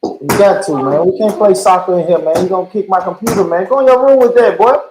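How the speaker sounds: dad telling off his son off mute. Real, not acted. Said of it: "you were just yelling at your kid".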